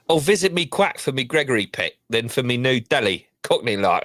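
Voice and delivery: a game, amateur cockney accent read. Shown as a demonstration. Co-host asked to read the chat message in cockney accent. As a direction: have a go at your best cockney accent. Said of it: "put my best cockney on here".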